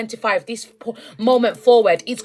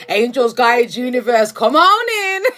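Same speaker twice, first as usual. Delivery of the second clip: calling in spirits; 6 dB louder than usual. Retold or imitated. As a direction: throw the doors open to the angels. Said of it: "someone who's really just like".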